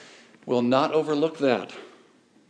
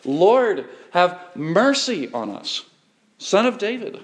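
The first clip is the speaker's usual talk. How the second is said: higher, louder desperate call of Lord; crying out; 5 semitones higher, 4 dB louder than usual. Retold or imitated. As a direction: call out over the crowd, slowly on mercy. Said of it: "cried out".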